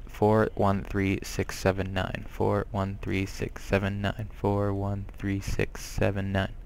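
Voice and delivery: slow, softening number recital; slow memorising recitation. Real, not acted. Player committing a number to memory, slow recitation. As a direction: repeat it slowly, digit by digit.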